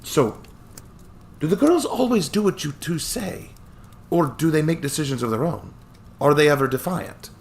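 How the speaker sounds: put-on chuckling old attorney, light Scottish touch; cheerful old Scottish lawyer.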